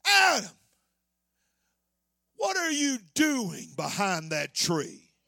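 lightly voiced God, drops low and slow; God teasing Adam, a hint of knowing; the second, knowing way to ask. Shown as a demonstration. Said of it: "You could almost say it like this".

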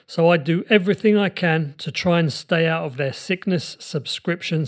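upbeat sponsor read, selling it. Acted. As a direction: pitch the product like a radio ad.

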